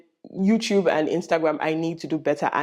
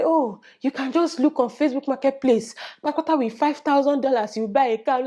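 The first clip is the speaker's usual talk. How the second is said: 1 mock casual adviser; 6 semitones higher than usual. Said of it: "Somebody said".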